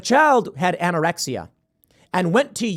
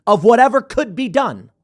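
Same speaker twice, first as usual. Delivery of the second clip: sarcastic bravo; 5 semitones higher, 4 dB louder than usual. Retold or imitated. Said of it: "be like".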